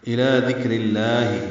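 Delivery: slow recitation; thin lam. Shown as a demonstration. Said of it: "لام اسم جلالہ کو باریک".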